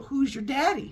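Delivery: high mocking jeer; bully taunt. Bullies mocking the new kid, high and jeering. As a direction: sneer it like a schoolyard bully.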